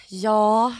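imitated weary nurse; grumpy, drawn-out tired answer; sour and tired. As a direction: drag it out, fed up. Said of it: "de är så sura och trötta".

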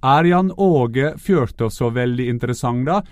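loud, slow, emphatic reading of a critic's post; mock reading aloud. Pundit reading a viewer's critical Facebook post aloud, loud and slow. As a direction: read the viewer's jab aloud with mock gravity. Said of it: "som nå har skrevet på Facebook".

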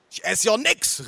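put-on high-pitched old woman's protest; protesting grandma. A narrator's reading. Grandma refusing food, high protest. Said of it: "rief sie".

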